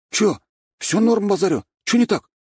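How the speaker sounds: high, cocky street-tough swagger; gopnik voice. A narrator's reading. Sweet boy faking a gopnik to newcomers, cocky swagger. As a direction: play a fake tough guy from the block. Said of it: "что стало с твоей речью".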